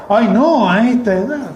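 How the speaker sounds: high, loud dismissive woman; an older woman protesting that she is too old, high and loud; mimicking the sister refusing. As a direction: wave it off in her high voice. Woman refuses due to age.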